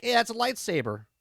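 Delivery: mock little girl. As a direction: play the kid stating the obvious, high and bright-eyed. Imitating the ten-year-old girl.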